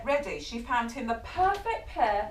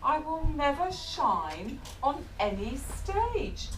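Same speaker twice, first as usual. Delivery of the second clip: sad sigh; 3 semitones higher, slower than usual. Acted. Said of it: "said Max with a sigh".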